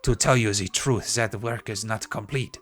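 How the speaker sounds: mock French artist, pompous and dramatic; bad French accent. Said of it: "I have a really bad French accent".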